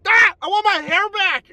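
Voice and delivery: despairing wail. Real, not acted. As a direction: wail it like a real loss. Real wail over lost hair.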